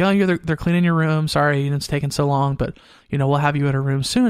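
normal talking voice

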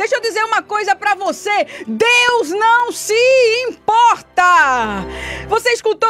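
shouting. Addressing a listener who may be on the radio, shouting. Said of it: "Eu tô gritando".

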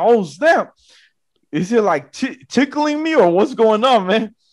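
put-on frightened voice. Retelling the moment static made their hair fly up, retelling being scared. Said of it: "And I was scared".

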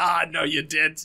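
put-on Australian accent. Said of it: "an Australian accent".

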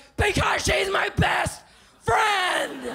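acted, upset shout, high and drawn-out. Retelling how she answered her mom back in college, retelling her own shout.

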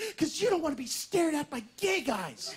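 put-on quavering, trembling, fearful voice. Retelling a man's answer to his question; imitating a trembling, fearful voice. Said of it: "in a trembling, fearful voice".

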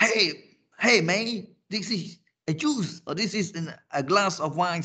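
shouting. Demonstrating how someone talks in a nightclub, shouting. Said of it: "you may shout a lot".

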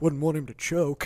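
mock mumble muttered under the breath. Retelling how the waiter, pouring water, mumbled a remark under his breath. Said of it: "he just fucking mumbles under his breath".

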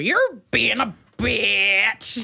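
very slow, rasping, creaky drawl. Imitating how the other speaker would insult someone: imitating the other speaker. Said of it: "if it was you, you'd go".

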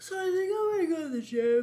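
words stretched by a yawn, very high and loud. Explaining you'd rather skip going out tonight, speaking through a yawn. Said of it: "Sorry, I'm yawning".

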